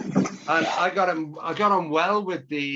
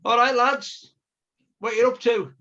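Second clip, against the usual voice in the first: a policeman calling across the road, raised and higher; retold police shout; 6 semitones higher, 4 dB louder than usual. Cop shouting from car window at two lads, mild mock call. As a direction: hail them from the car window, mock bossy. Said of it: "he shouted".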